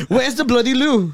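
high, laughing mock-British demand; angry British accent. Friend showing how to ask for the restroom, angry British accent. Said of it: "why is everything so angry though".

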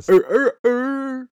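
high, loud screeching raider cry; Tusken Raider. Acted. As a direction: shriek like a desert raider. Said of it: "it's my best Tusken Raider".

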